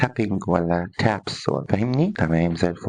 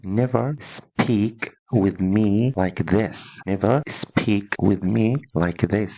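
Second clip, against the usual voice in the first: strict father; much slower than usual. Retold or imitated. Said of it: "هقول لك تمام".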